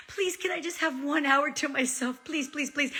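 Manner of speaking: high, hushed begging; small, imploring mock plea; pleading. Retold begging for an hour alone.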